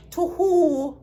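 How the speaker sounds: loud, high, laughing disbelief; real incredulous laugh; laughing scoff. Real, not acted. Scoffing at the excuse.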